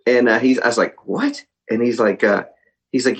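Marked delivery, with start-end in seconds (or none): 1.1-1.4 soft, high-pitched astonished question; re-enacted stunned little question; retold disbelief. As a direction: let it leap up in pitch, quietly incredulous. Retelling own stunned reaction.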